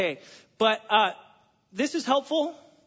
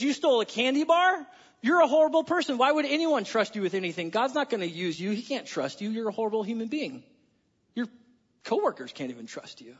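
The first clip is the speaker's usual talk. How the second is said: accusing voice of shame. Retold or imitated. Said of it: "Shame sits here and says".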